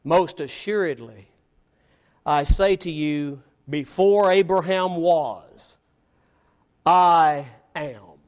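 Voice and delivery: slow, weighty declaration building to a loud "I am"; emphatic. Acted. Jesus answering his challengers about Abraham, emphatic. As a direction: set each phrase apart, then land "I am" low and forceful. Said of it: "Jesus' answer is emphatic".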